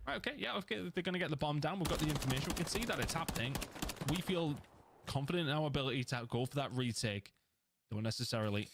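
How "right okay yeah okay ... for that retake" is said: lightly voiced confident player; upbeat team talk; team's confident voice. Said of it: "sort of say".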